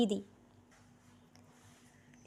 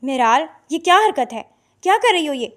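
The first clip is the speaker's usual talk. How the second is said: alarmed; 3 semitones higher, 3 dB louder than usual. Acted. Father confronts daughter with knife.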